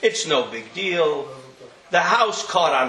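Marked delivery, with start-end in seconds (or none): 0.0-1.3 indifferent. Retold or imitated. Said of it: "Kimei sheino margish".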